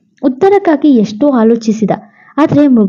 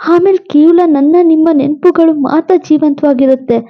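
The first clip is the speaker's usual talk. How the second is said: put-on higher, gentle voice of a dying young wife; lightly voiced pleading wife; 4 semitones higher than usual. Dying wife begs husband Shiv to remarry, lightly raised voice.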